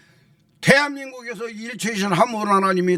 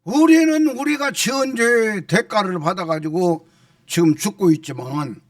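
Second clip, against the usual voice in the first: mildly raised, preacherly scolding; acted rebuke; 4 semitones higher than usual. Right-hand thief scolding the left-hand one, acted rebuke. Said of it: "좌편 강도를 꾸짖은 거예요".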